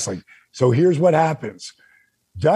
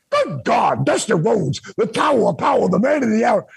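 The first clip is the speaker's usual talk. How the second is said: hyped promo; 6 semitones higher than usual. Retold or imitated. Selling himself to Dusty Rhodes on the phone, hyped promo. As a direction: pump it up like a ring announcer. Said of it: "jibber jabbers".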